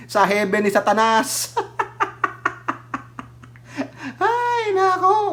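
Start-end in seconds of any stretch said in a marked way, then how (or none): 1.6-3.0 high airy laugh. Real, not acted. Laughing at the heaven joke. 4.2-5.3 exasperated. Real, not acted. Exasperated exclamation.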